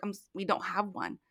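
deadpan prank answer; very serious. Retold or imitated. Joker telling a visitor there is no restroom, deadpan. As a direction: say it dead straight, no hint of a joke. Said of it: "I said it very serious".

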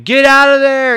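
high, loud shouted order; imitated yelling. Retelling Troutman at the helicopter fight, imitated yelling. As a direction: yell it like an urgent warning. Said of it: "Troutman's yelling".

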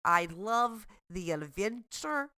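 mock Russian accent, dry and unimpressed; bad Russian accent. Sarah declines the recipe in a bad Russian accent. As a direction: politely refuse the dish in broken Russian English. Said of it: "speak in bad Russian accents".

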